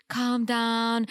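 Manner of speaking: even, unbothered calm down; a calm partner settling an upset fiancé. Retold or imitated. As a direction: soothe him gently, no edge. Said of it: "But she was so calm".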